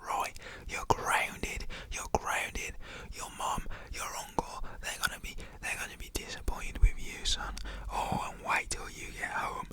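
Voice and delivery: mock stern dad in a whisper; hushed imitation of an angry parent; whispered telling-off. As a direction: scold your son in a firm whisper. Raging dad telling off son.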